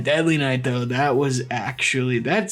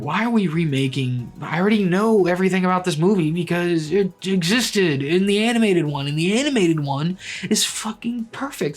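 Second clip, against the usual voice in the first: mock indignant rant; 4 semitones higher than usual. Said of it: "I was just mad the whole time".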